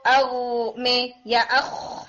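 "او" and "اخ" drawn out slowly; running sound. Shown as a demonstration. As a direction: let "او" and the kh of "اخ" run on without a hit. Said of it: "یہ آپ کو running ملتی ہے". ("او" اور "اخ" کی آواز کھینچ کر، بہتی ہوئی)

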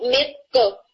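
میق کو said lightly, without heaviness; wrong light version. Shown as a demonstration. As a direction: demonstrate the light mistake. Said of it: "یوں نہیں، یعنی اسے light کر کے نہیں کرنا".

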